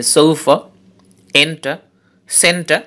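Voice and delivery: সোফা, এন্টা, সেন্টা, each strong on the first syllable; stress on first syllable. Shown as a demonstration. Teacher gives likewise-stressed examples সোফা, এন্টা, সেন্টা, first syllable strong. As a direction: hit সো, এন, সেন and leave the endings weak. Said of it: "ঠিক একইভাবে".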